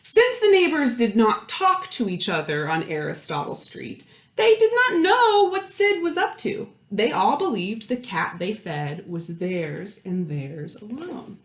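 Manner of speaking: lively storytime read, lingering on the counting; reading to children. A narrator's reading. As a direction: read it aloud to a circle of kids, savouring each house. Reading picture book to children.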